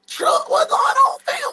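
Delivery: slow, high hyped greeting; excited call-out. Real, not acted. Greeting his boy Truck in chat, high slow call-out. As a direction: stretch it out, calling across the room.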